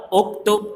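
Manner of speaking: slow careful Arabic اکتب; Arabic word read out. Shown as a demonstration. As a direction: say اکتب slowly with clear Arabic sounds. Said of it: "لکھیے".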